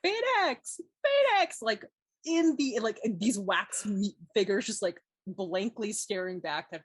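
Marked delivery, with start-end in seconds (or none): 0.0-1.6 put-on rising, ever louder calls in a British accent; a singer's British accent. Mother searching empty wax museum halls, calling in a British accent. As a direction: call out the name louder each time, British accent. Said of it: "and, like, in her accent".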